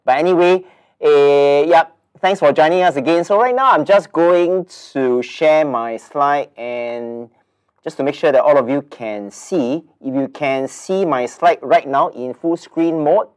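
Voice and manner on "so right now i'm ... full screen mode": blocked nose, nasal tone. Real, not acted. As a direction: talk through a stuffy nose. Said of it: "if you are able to hear my nasal voice".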